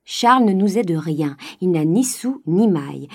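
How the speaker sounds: loud, hard-edged decree; stern father. Acted. Miserly father laying down the law loudly. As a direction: lay down the law to the family. Grandet scolding about nephew.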